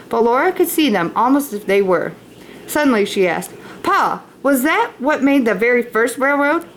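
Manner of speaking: put-on reading a chapter aloud to children; story narration. A narrator's reading. Teacher reading Little House aloud to students, storybook voice. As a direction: read it like a storybook to the class.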